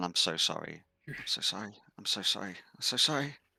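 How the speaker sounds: mock, tearful, crying mumble. Speaker acts out what she says during the hug, imitating someone mumbling tearfully. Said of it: "she's mumbling".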